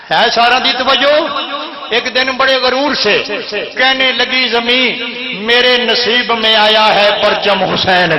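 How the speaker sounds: chanted majlis verse; poetry recital. Acted. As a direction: recite the rubai to the gathering.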